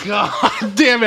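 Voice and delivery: high, slow curse broken by laughter; laughing curse. Real, not acted. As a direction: let the laugh take over the curse. Laughs at the punchline.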